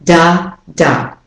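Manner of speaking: "Da, da" as two separate, equally stressed beats; even rhythm. Shown as a demonstration. Teacher showing learners equal stress, evenly beaten. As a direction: tap out "Da, da" evenly, both vowels clear. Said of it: "giving an even, even rhythm".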